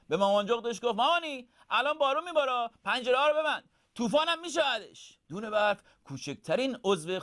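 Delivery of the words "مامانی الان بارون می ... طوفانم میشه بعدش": high, loud little owlet voice; high-pitched, urgent owlet; little owlet calling. Acted. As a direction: call out to mum in a high child's voice. Owlet calls out to mother.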